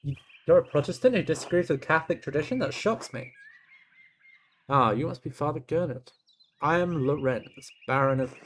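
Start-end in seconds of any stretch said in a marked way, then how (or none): 4.7-8.3 stiff baron voice. Acted. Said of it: "He's talking in black letter".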